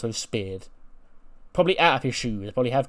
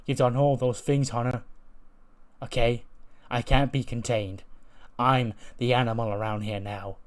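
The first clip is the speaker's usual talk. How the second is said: defiant threat. Acted. Bronson threatens his boss.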